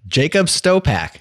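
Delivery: high, loud excited reveal. Real, not acted. Host excitedly reveals the article's author. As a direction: announce the name like big news.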